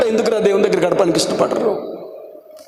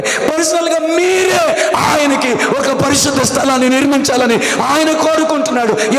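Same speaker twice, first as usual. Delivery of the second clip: fervent appeal; 4 semitones higher than usual. Acted. Appeals personally to congregation.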